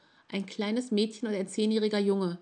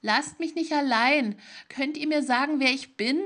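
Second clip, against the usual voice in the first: lauter, höher, flehend; verzweifeltes Flehen; 6 semitones higher, 4 dB louder than usual. A narrator's reading. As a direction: flehe laut um Hilfe. Fremder fleht verzweifelt um Antwort. (Fremder fleht die Leute an, lautes Flehen)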